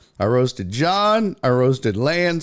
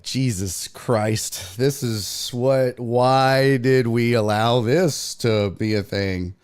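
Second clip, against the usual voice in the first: retold slow dismay; 2 semitones lower, much slower than usual. Station staff's regret, acted out.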